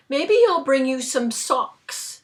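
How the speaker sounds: sarcastic Santa. Retold or imitated. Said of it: "in a sarcastic moment".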